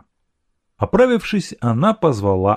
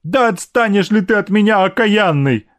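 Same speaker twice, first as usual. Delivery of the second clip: higher, mildly weeping scolding; tearful; 10 semitones higher, 3 dB louder than usual. A narrator's reading. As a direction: scold him through light tears. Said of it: "говорила она, плача". (сквозь слёзы, с упрёком)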